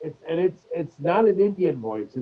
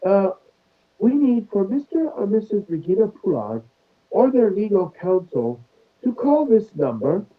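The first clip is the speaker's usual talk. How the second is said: 1 British scam caller; 3 semitones higher than usual. Retold or imitated. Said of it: "lady with a British accent".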